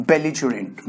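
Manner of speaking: belligerent with a soft j for the g; pronunciation demo. Shown as a demonstration. Teacher answers how to pronounce belligerent, pronunciation demo. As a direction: model belligerent as a lone word, falling at the end. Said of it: "How do you pronounce it?".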